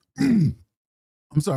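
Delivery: slow, strained voice forced through choking. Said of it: "I'm choking".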